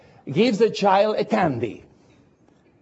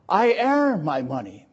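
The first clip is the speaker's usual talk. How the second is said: truck driver; 2 semitones lower than usual. Retold or imitated. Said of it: "talking to a truck driver".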